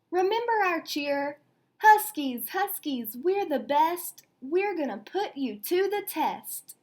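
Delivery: team cheer. Acted. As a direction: lead the team chant with spirit. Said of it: "the whole team shouted".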